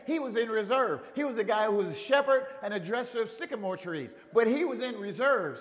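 preacher urging the congregation on, full-force preaching. Real, not acted. Preacher urging the congregation that God still uses them, full-force preaching.

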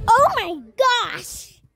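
loud, slow stretched exclamation; surprised exclamation. Real, not acted. On a seesaw, exclaiming.

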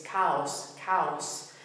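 "chaos" said the Spanish way, KA-os; no intervening Y. Shown as a demonstration. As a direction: move straight from a to o in "chaos", no y. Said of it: "without any intervening y sound".

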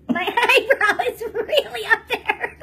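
slow, loud, through laughter; helplessly amused, words stretched by laughs; laughing. Real, not acted. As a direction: crack up while saying it. Laughs at own makeup.

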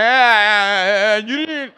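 high, strained stammer; stuttering angry dad. Retold or imitated. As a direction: get stuck on the first sounds, mad. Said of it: "stutters when he gets mad".

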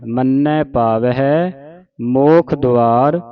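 slow, measured model recitation; scripture recitation demo. Shown as a demonstration. Teacher showing congregation correct Japji Sahib reading, slow recitation. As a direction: recite it slowly for learners to copy. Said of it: "ਪਾਵਹਿ ਪੜ੍ਹਨਾ ਹੈ".

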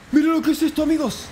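high-pitched, thrilled amazement; amazed excitement. Real, not acted. Muestra asombrado el premio. (asombro emocionado, con voz muy aguda)

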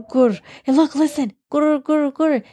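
growly gur-gur tummy noise; tummy growl. Acted. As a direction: rumble it like a hungry stomach. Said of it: "tummy sound effects".

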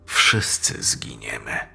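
put-on old man whispering to Karla that everyone will die; grim whisper. Old man's grim prophecy.

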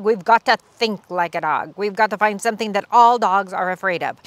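lightly voiced wise scientist; a hint of a lecturing professor. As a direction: professor warns the mice about the monster.

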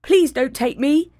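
second goat begging; pleading middle goat. Acted. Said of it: "said the second billy goat".

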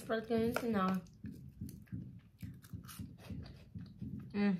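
talking while chewing snack; muffled hum through food; mouth full, chewing. Real, not acted. Seen 2: Bites snack at -3 to -2, lips closed, chewing into hum.

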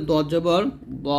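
"দ জবর দ" with a thick, rounded d; heavy Dad. Shown as a demonstration. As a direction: round "দ", never a thin "দা". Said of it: "লদ যদি আপনি মোটা না করেন". ("দ" মোটা করে)

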